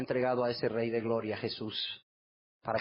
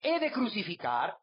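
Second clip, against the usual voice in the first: Pilate asking; 9 semitones higher than usual. Acted. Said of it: "Pilato les dijo".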